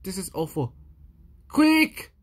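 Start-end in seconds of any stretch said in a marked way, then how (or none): 1.5-2.1 high, loud urgent call; urgent cry. Acted. Louis urging the reader to grab a towel. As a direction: rush them.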